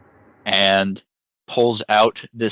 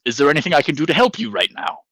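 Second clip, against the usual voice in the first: higher and fast, eager little robot helper; droid voice; 5 semitones higher, much faster than usual. Acted. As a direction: rattle it off like a keen assistant droid. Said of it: "and he says".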